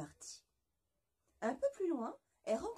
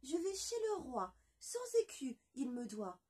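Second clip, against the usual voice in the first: high, matter-of-fact little voice; half-chick's reply; 4 semitones higher than usual. Acted. La moitié de poulet répond fièrement, voix aiguë. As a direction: state your errand proudly.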